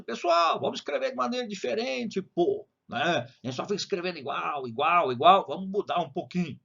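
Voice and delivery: high-pitched casual mock poet pep talk; imitating Sá de Miranda. Sá de Miranda urging poets to change style, lightly voiced. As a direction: lightly voice the poet rallying his fellow writers. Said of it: "Mais ou menos isso ele falou".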